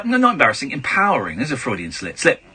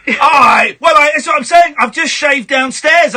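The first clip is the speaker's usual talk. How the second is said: 1 laughing shout; 4 semitones higher, 4 dB louder than usual. Real, not acted.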